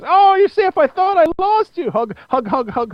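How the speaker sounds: put-on high, gushing little-girl voice; relieved girl. Terra running up to Beast Boy, high and gushing. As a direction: gush with relief like a tiny girl. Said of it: "And she goes".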